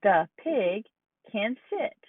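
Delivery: "The pig" then "can sit" spaced apart for counting; word by word. Shown as a demonstration. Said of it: "Count the words you hear".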